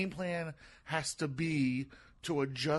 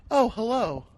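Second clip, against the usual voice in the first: a louder, higher, mocking Oh, hello; mock unimpressed audience; 8 semitones higher, 8 dB louder, slower than usual. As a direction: imitate a crowd that isn't buying it. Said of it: "they're just like".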